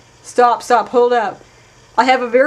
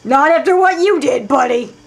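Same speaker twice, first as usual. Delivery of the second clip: scornful retort; 3 semitones higher, 4 dB louder than usual. Real, not acted. Player scolding the diary writer, louder and scornful. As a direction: snap back at the diary writer.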